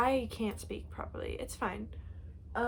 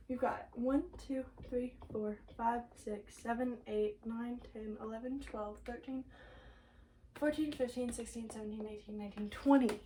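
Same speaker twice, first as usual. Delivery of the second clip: quiet counting; 6 dB quieter than usual. Real, not acted.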